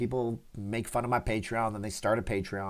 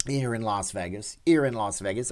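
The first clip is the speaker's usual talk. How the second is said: lightly faked British accent; attempted British accent; 2 semitones lower than usual. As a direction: have a half-hearted go at sounding British. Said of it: "trying to talk like a British person".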